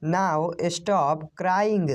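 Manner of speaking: very slow, drawn out. Shown as a demonstration. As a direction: drag out Now stop crying. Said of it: "बस अब रोना बंद करो".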